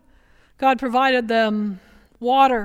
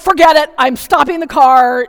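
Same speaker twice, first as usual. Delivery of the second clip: fed-up driver; 8 dB louder than usual. Retold or imitated. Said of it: "God's like".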